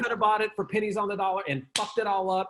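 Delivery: hammed-up ridicule of a failed corporation; mock scornful gossip. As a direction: sneer at the dinosaur company that blew it. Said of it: "they talk about".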